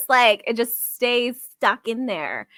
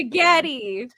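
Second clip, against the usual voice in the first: Italian accent. Shown as a demonstration. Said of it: "just with an Italian accent".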